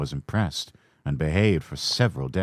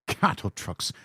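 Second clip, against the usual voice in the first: grumbling; 2 semitones higher, 6 dB quieter than usual. A narrator's reading. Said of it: "grumbled the coaches".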